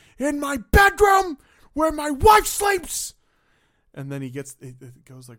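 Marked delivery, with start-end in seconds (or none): 0.2-3.2 imitated screaming, higher and louder. Retelling a movie scene between Michael and Frank: imitating Michael Corleone screaming. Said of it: "he goes from this scre-".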